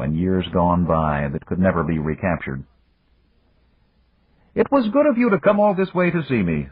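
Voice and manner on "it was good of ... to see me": put-on higher, measured voice of an old friend; Japanese magnate. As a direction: voice the older businessman, courteous and calm. Yamagata's voice in story.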